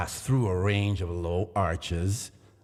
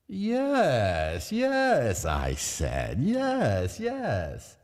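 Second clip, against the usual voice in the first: high, insistent repeated yes; eager insistence; 7 semitones higher, much slower than usual. A narrator's reading. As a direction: assure him eagerly.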